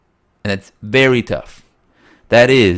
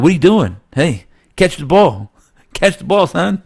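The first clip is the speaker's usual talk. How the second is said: yelling coach; 8 semitones higher than usual. Acted. Coach getting in player's face.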